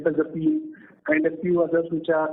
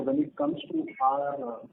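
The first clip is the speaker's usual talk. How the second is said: muffled; 8 semitones higher, 6 dB quieter, slower than usual. Real, not acted. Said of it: "you're sounding muffled".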